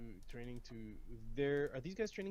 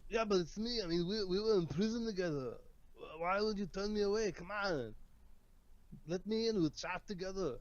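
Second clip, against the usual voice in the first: insistent pleading; 3 semitones higher, 4 dB louder than usual. Acted. Pleading at locked door.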